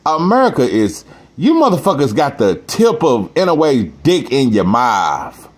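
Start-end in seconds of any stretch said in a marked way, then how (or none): 1.4-5.5 a rapper's voice. Pretend. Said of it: "in my motherfucking rapper voice".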